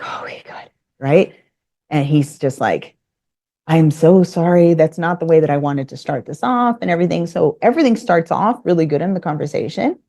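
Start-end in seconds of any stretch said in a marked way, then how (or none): 0.0-0.7 unvoiced, hushed aside; whispered relief. Relieved aside after his apology. 3.7-7.3 profuse apology. Retold or imitated. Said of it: "He apologizes profusely".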